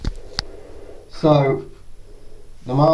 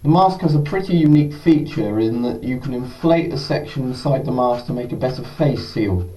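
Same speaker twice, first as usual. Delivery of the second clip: muffled behind a respirator; speaking from inside a gas mask; through a gas mask. Real, not acted. Wearing the mask for testing.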